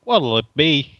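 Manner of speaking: put-on Brooklyn accent; Christopher Walken. Innkeeper asking a cleric's order, Brooklyn accent. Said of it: "tavern man is called Christopher Walken".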